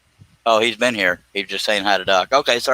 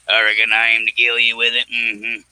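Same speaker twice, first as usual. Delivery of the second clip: Sling Blade line. Retold or imitated. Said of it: "Billy Bob Thornton. Sling Blade".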